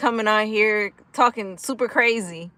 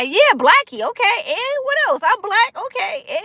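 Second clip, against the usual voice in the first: mocking sarcasm; 12 semitones higher than usual. Real, not acted. Mocking a chat troll.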